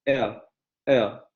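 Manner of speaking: "air" as a long British vowel with no r. Shown as a demonstration. Teacher demonstrating British English, careful pronunciation. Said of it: "sabremos que se pronunciaría solamente como air".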